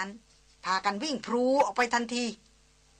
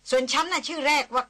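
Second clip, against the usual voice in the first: a lightly voiced haughty American woman, a touch higher; lightly voiced Christina, testy and sharp; irritated young woman; 3 semitones higher than usual. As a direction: snap back at the guide, annoyed and proud.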